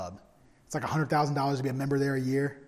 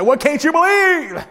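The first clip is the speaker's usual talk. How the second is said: curious question; 14 semitones higher, 12 dB louder than usual. Retold or imitated. Asking old classmate at restaurant.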